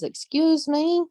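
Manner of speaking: high, slow "excuse me"; pointed, drawn-out challenge ending high; Southern woman's warning. Acted. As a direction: stretch it out like trouble is coming. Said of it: "when any Southern woman says".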